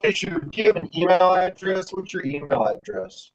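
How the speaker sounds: muffled, bubbling phone line; underwater. Real, not acted. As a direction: sound like you're underwater. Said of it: "you sound like, uh, like you're underwater".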